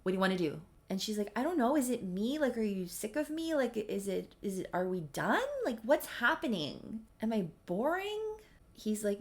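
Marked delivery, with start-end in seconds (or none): 0.0-0.6 mildly irritated, curt questions; retold anger. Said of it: "he just launches into anger". 1.4-8.3 anxious questioning. Retold or imitated. Acted anxious relationship questioning.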